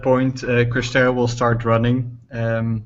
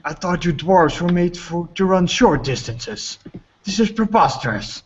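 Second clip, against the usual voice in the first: indignant Krister; 7 semitones higher than usual. Acted. Krister protesting to the dwarves about running, high and indignant. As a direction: complain in a high, outraged character voice. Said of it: "you'll hear Krister going like".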